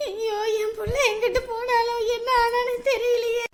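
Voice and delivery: tearful wailing voice; crying lament. Acted. Mother of missing girl breaking down, crying lament.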